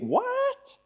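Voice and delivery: very high, rising disbelieving "What?"; squeaked mock astonishment; incredulous what. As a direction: act out a shocked double-take. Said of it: "exactly the, the same tone of voice".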